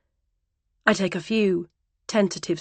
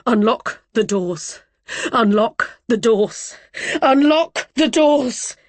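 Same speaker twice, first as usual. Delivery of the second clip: slow, growing louder into a high scream; building to a scream; 3 semitones higher, 5 dB louder, slower than usual. Acted. Trapped woman repeating her demand until screaming at the driver. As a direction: start firm, end screaming. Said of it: "growing louder each time ... until I'm screaming at him".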